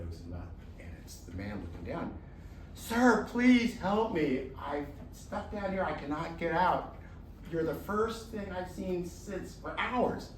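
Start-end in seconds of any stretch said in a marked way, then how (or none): 2.7-10.3 higher, slow plea; a hint of a desperate trapped tiger; pleading tiger. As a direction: tiger pleads with the man, lightly voiced and higher.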